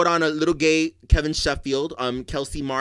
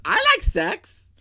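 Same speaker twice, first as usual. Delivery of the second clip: cheeky; 11 semitones higher, slower than usual. Real, not acted. Playful provocation.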